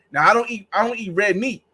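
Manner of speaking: ordinary talk, nothing marked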